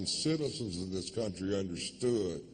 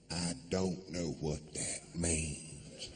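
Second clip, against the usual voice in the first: confused mother; 5 semitones lower, 5 dB quieter, slower than usual. Retold or imitated.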